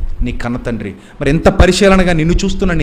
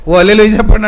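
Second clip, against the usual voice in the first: higher, louder preacher's cry for hallelujah; mock preacher; 5 semitones higher, 3 dB louder, faster than usual. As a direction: ham up another pastor's chant. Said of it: "అంటాడు ఇంకొక ఆయన".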